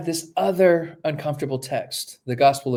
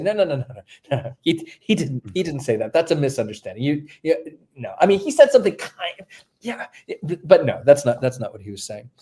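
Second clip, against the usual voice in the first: defensive protest. Retold or imitated. Mark fending off the accusation, in a mildly mock protesting voice. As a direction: wave off the charge like a nervous defender. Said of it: "Mark is trying to say".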